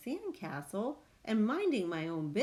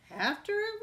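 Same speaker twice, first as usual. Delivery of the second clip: high, breathy crew whisper; 13 semitones higher than usual. A narrator's reading. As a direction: whisper it together. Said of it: "we all whispered".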